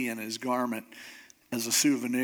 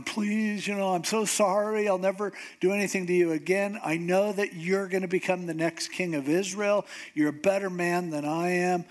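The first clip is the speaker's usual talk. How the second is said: higher-pitched, hammed-up begging; lightly acted remorseful whine; mock tearful pleading; 4 semitones higher than usual. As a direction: imitate someone crying out an apology. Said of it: "he's crying and, and he's just going".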